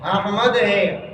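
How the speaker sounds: احمد slowly as "AH-mad"; correct pronunciation. Shown as a demonstration. Teacher giving class the replacement, correct pronunciation. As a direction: stretch the open "a" and h in احمد. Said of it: "بلکہ کیا ہے".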